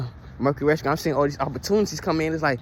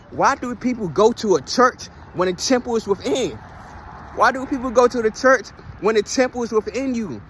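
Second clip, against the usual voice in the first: higher-pitched rhetorical questioning; preaching questions; 5 semitones higher than usual. Real, not acted. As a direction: press each question home like a preacher.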